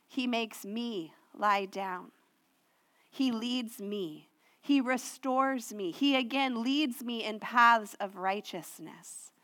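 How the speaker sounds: each "He" hit, drawn out; slow down and stress every "He"; slow emphatic listing. Acted. Pastor walking the church through each verse, slowly.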